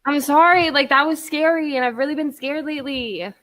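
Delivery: breathless after running around; out of breath. Real, not acted. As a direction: talk while catching your breath. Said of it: "I'm out of breath".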